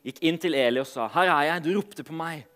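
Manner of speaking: measured Bible reading with pauses; solemn storytelling from scripture. A narrator's reading. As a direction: read the passage aloud to a congregation, phrase by phrase. Reads Bible passage aloud to congregation.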